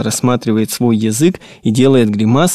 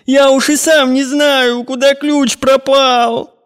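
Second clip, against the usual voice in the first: put-on sobbing boy; 13 semitones higher, slower than usual. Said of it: "Мальчик громко рыдает".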